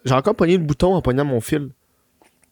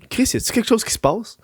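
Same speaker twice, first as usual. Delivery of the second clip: surprised; 5 semitones higher, 3 dB quieter than usual. Retold or imitated. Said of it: "je suis comme".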